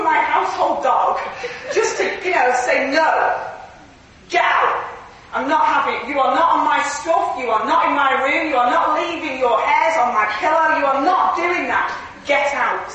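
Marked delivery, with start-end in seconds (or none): 2.9-12.9 firm, emphatic scolding of a dog; authoritative. Retold or imitated. Preacher exercising authority over her household dog, firm. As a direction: re-enact laying down the law. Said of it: "I have to exercise my authority".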